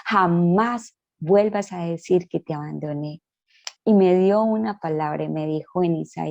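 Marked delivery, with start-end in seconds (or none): 0.1-3.2 God's voice. Retold or imitated. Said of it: "Dios cayó mis palabras y me dijo".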